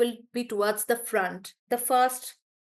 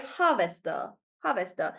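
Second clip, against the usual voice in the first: harvester said low with HAR stressed; 5 semitones lower than usual. Shown as a demonstration. Teacher showing the rule, harvester stressed on HAR. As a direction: lead with HAR, let harvester fall away. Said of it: "it'll be on the first syllable".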